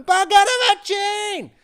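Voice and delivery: loud, high cartoon Italian accent; stereotypical Italian accent. Host signing off in loud Italian accent. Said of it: "stereotypical Italian voice".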